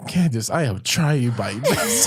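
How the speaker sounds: slow, weary mock mother; exasperated mom. Imitating tired mom pleading with daughter, slow. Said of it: "She said".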